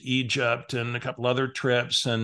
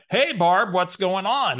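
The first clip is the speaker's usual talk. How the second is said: bright, loud pretend-I-know-you hello; mock-cheery hello to a stranger; fake-friendly greeting; 6 semitones higher, 5 dB louder, slower than usual. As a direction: greet her like an old friend you can't place. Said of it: "I'm gonna have to use Barbara's voice for effect".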